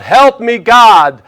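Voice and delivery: loud desperate shout to God; a man's full-voiced plea over a hurricane; crying out for help. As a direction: yell it from inside the storm. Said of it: "the man cries out".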